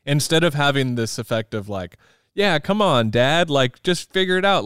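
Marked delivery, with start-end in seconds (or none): 2.3-4.7 mock upbeat teen voice, higher; voicing Leo. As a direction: lightly play the cheerful son urging dad. Voicing Leo in a movie discussion.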